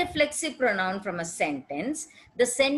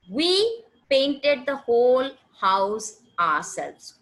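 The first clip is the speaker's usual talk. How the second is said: slow example sentence; 3 dB louder, slower than usual. Shown as a demonstration. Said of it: "So we are emphasizing here ourselves".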